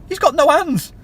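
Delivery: "got" punched hard in an indignant repeat; emphatic repeat. Shown as a demonstration. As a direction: slam the point home a second time. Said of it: "because he's got no hands".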